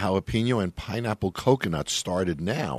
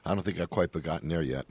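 eating while talking; talking round a bite of candy; mouth full. Real, not acted. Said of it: "forgive me, I'm eating my M and M here".

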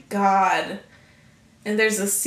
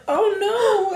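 laugh-crying; 11 semitones higher than usual. Retold or imitated. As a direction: squeal it half laughing, half crying. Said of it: "I was like".

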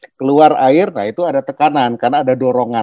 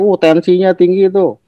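higher-pitched imitation of onlookers; mock lay remark; 4 semitones higher, 4 dB louder than usual. Doctor imitates people misreading short tempers as hypertension, mock lay remark. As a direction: lightly act out a knowing onlooker. Voicing what people wrongly say.

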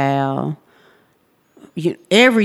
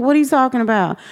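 retold disbelief; 7 semitones higher, much faster than usual. Retold disbelief at judge's ruling.

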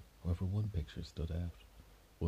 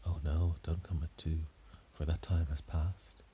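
ghostly lady. Acted. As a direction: warn him like a ghost that time is gone. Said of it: "why she was talking like a ghost".

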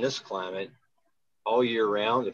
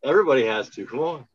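calling everyone in, loud; rally the room to join; loud urging; 5 semitones higher, 9 dB louder than usual. Real, not acted. Urging everyone to hum along.

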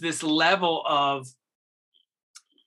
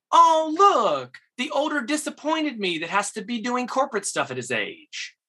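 sharp comeback; 8 semitones higher than usual. Retold or imitated. Young actor firing back at the cocky lead, high mocking retort. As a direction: fire the same line back with a grin. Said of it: "I go".

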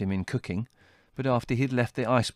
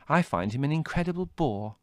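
Margot voice; 6 semitones higher than usual. A narrator's reading. Margot scornful of Adrian.

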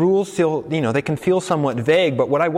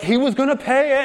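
retold yelling; 11 semitones higher than usual. Shop owner shouting back at the local, mock yell. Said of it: "so they're yelling".

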